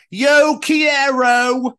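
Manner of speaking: high, very slow mock Spanish; imitating Keris. Imitating a friend proudly trying Spanish. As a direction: ham up a friend's halting Spanish. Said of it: "Keris, bless her".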